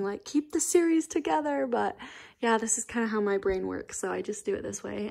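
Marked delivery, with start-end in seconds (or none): 0.2-1.7 high-pitched mock outcry, barely louder; mock scream. Imitating viewers who object to split series, mock scream. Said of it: "some people are probably screaming".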